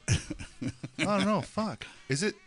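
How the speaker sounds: hushed panicked dinosaur. Pretend. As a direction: whisper scared like a dying dinosaur. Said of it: "let's get your best dinosaur growl".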